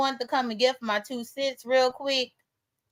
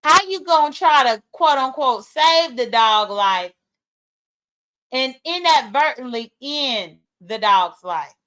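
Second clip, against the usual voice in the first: pointed question. Real, not acted. Streamer challenging viewers over the dog's fate, pointed. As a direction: put the challenge pointedly, slowing toward the end.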